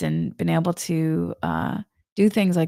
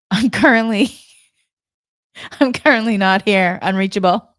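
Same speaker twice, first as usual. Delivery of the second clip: mock away message; 5 dB louder than usual. Mock away sign on herself.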